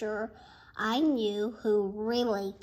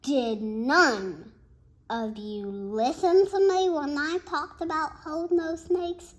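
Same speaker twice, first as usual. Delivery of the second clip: louder, exasperated teacher; cried; 3 semitones higher, 6 dB louder than usual. Acted. Mister Cooper scolding the class, loud and exasperated. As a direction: call out in frustration. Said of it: "cried Mister Cooper".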